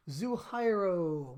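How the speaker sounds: ordinary delivery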